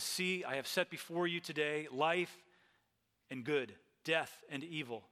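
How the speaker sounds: emphatic pulpit reading of a prophet's appeal; scripture reading. Acted. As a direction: read the verses out in long, building phrases. Reads Moses' appeal from scripture.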